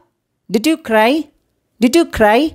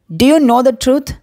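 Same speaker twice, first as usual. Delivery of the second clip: very slow, every word spaced; slow model phrase; much slower than usual. Shown as a demonstration. Teacher to Tamil learners, slow clear model question. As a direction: stretch it out for learners to copy. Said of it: "teacher models English phrase twice".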